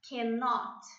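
Cannot said clearly for repeating; model pronunciation. Shown as a demonstration. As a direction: Cannot pronounced fully, every syllable. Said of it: "Repeat with me".

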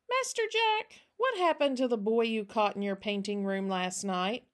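put-on an eager child asking after news; lightly voiced little girl, curious.

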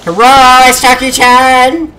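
hammed-up Chinese accent, stretched words; Jackie Chan accent. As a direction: announce yourself boldly in a mock Chinese accent. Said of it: "I always slip into an accent".

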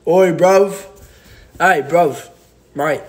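hammed-up British lad accent, short bursts. Shown as a demonstration. Trying the accent on a livestream, mock British accent. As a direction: put on a cheeky British accent. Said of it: "do a British accent".

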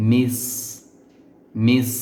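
তথা tongue tip to the upper teeth; demo of mis. Shown as a demonstration. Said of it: "এরকম". (জিহ্বার আগা উপরের দাঁতে লাগিয়ে মিস)

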